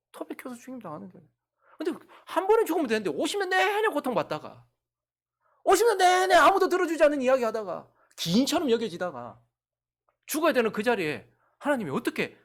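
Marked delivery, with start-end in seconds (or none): 1.8-12.4 loud, high pleading cry; fervent shouted sermon climax; impassioned preaching. Real, not acted. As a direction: pour it out with full force.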